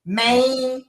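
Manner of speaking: "Maine" drawn out as Memphis slang; Memphis slang pronunciation. Shown as a demonstration. Guest attempting the Memphis catchword, "Maine" said long as local slang. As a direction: try "Maine" the Memphis way, stretched out. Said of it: "I don't think I've mastered it yet".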